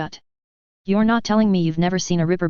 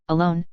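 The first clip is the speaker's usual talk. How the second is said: "Alone" set apart as a word of its own; emphasis on "Alone". A narrator's reading. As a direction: lightly stress "Alone" after a pause. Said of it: "emphasizing the last word".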